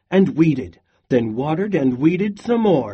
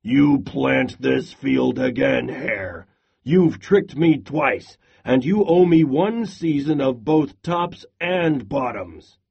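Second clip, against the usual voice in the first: growling. Acted. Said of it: "Bear growled".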